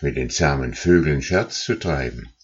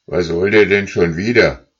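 annoyed; 3 semitones higher, 6 dB louder than usual. Acted. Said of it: "schien sehr verstimmt".

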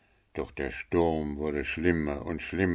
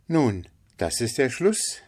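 mild linnet; 6 semitones higher than usual. Acted. Figure of the linnet.

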